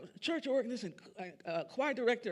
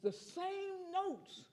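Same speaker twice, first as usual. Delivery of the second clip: slow demo; 10 semitones higher, 8 dB quieter, much slower than usual. Shown as a demonstration. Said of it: "it's all in where you put the emphasis".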